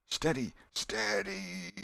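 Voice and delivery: slow, drawn-out order; steady the crew slowly; stern command. Acted. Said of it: "in a low, stern whisper".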